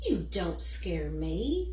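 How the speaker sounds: low, slow, stubborn; steady yourself and sound brave; brave defiance. Acted. Eliza telling the shadow she is not afraid, bravely.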